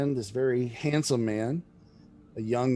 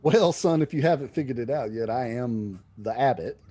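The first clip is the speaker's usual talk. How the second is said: folksy abbot. Acted. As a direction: chuckle at your own name. Abbot jokes about his name.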